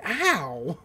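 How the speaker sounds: short acted "ow" of pain; mock yelp. Gideon hit by a thrown gummy bear, mock yelp. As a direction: yelp as if struck, playfully.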